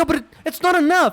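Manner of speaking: high, loud cry of protest; emotional outburst. Retold or imitated. Refusing the buyer's short cash, loud and upset. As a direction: shout it, voice straining with upset. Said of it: "you can hear he's getting emotional".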